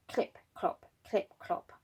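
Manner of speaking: soft whispered clip clop; hushed rhythmic hoof sounds for children; whispered hoofbeats. Acted. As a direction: tap out the donkey's steps in a whisper. Donkey hoof sounds in story.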